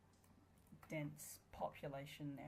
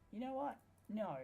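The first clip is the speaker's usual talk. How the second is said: each repeat more outraged, up to a shout; rising exasperated yell; 6 semitones higher, 4 dB louder than usual. Real, not acted. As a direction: voice climbing higher and louder, fed up. Frustration at game.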